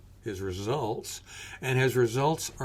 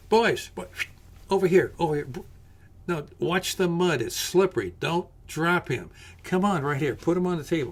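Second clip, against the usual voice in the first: higher, louder urgent calls across the yard; calling out; 4 semitones higher, 3 dB louder than usual. Acted. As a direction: hurry them in with a raised voice. Calling men carrying a patient.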